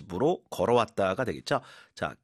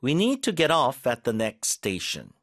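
slow model sentence; much slower than usual. Shown as a demonstration. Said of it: "지하철을 만약에 타고 있다면".

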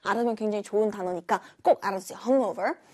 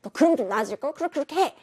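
mock irritated; 5 semitones higher, much faster than usual. Shown as a demonstration. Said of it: "이렇게 화나게 하면은".

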